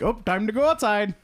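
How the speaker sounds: mock cheerful voice.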